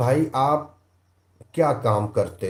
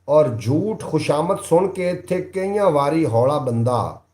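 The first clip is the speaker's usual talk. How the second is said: raised, declaiming verse voice; poem recitation; 3 semitones higher, 4 dB louder than usual. Acted. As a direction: recite it like a stage poet. Reciting Punjabi verses to viewers.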